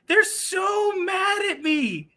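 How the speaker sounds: high, slow mocking singsong; drawn out in a high taunting tone; mock-pitying singsong. Mocking the angry haters.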